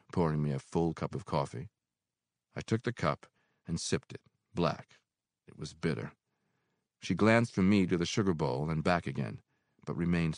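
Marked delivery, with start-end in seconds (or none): none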